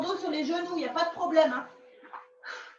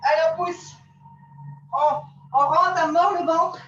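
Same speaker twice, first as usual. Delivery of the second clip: doing push ups; 4 semitones higher, 4 dB louder than usual. Real, not acted. Coach calling out push-ups.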